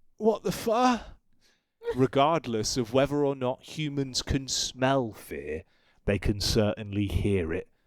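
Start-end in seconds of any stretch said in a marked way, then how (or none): 0.2-1.0 frightened, weak little whimper, very high. Recalling what came out instead of a commanding tone: acting out a frightened whimper. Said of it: "what actually came out was a whimper, more of a".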